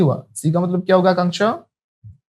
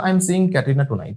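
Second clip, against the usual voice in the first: very slow, words drawn out for the class; slow teacher demo to repeat; slow model sentence; much slower than usual. Shown as a demonstration. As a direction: stretch out "I am seeing Katrina tonight" clearly as a teacher. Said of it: "कैसे बोलेंगे?".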